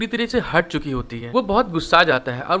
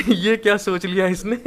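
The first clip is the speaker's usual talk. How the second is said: laughing. Real, not acted. Narrator amused at her idea, laughing. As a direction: still chuckling through the words.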